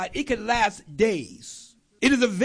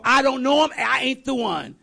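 louder, higher, with a nervous laugh; loud denial; 4 semitones higher, 3 dB louder than usual. Acted. Peter loudly brushing off the accuser in the courtyard. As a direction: blurt it out, laughing it off.

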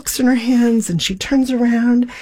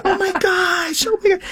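overwhelmed exclamation; 10 semitones higher than usual. Retold or imitated. Overwhelmed by the answered prayer.

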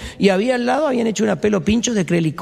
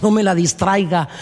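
comic plea; slower than usual. Acted. Jewish man to fly.

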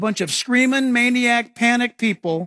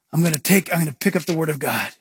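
brisk; 6 semitones lower, faster than usual. Shown as a demonstration. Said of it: "Now watch, watch".

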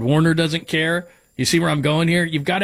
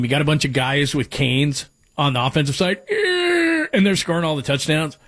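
put-on old man voice. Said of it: "That was my old man voice".

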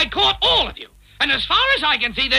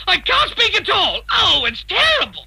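distressed, on the verge of crying; acted tearful dismay; near tears; 3 semitones higher than usual. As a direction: wail it as if about to cry. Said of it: "He looks as though he's gonna cry".

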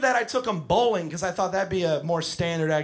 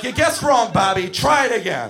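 mock scolding shout; 4 semitones higher, 5 dB louder than usual. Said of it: "I'm like".

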